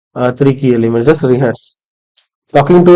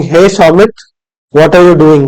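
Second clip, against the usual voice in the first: slightly raised, projected call; 2 semitones higher than usual. Shown as a demonstration. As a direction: project it a little, as if across a distance. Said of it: "my voice will raise a little bit".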